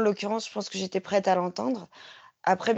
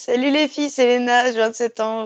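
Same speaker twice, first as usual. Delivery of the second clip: speaking through laughter; 4 semitones higher, 6 dB louder than usual. A listener recording a voice message to the hosts, laughing while speaking. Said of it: "je rigole parce que ça fait trois fois".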